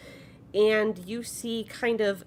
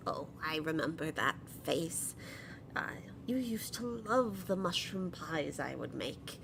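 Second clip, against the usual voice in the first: put-on soft, gently sweet old goblin mother; very sweet grandmother; 6 dB quieter than usual. Grandmother remembers a returning guest, sweet and soft. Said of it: "she just kinda has this very sweet voice".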